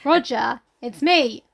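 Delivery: high, slow, hammed-up disbelief; exasperated Ralph. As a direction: whine it out, exasperated. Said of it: "Ralph is like".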